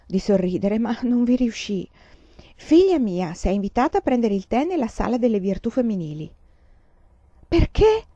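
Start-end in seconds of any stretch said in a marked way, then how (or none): 2.5-6.3 a touch of a formal, commanding mother; mother summoning her daughter, lightly stern. Acted. 7.5-8.0 high, sharp startled question; startled why. Acted. Daughter surprised at summons.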